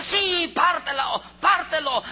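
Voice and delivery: shouted out hard, pushing for the cut; eager harsh shout. Acted. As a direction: bark it like she wants it done. False mother demands cutting baby.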